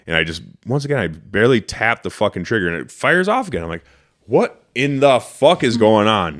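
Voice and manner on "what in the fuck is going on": exasperated outburst. Retold or imitated. Gun fires unexpectedly again.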